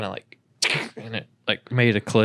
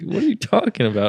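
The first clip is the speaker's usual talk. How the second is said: mock confused sibling; 11 semitones higher than usual. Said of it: "started laughing and be like".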